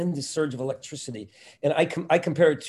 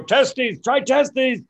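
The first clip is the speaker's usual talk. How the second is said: much higher, louder, manic coaching voice; Robin Williams; 10 semitones higher, 7 dB louder, much slower than usual. Retold or imitated. Robin prompting the comic from offstage, higher and louder. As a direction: toss him the word like an eager prompter. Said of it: "but I heard Robin go".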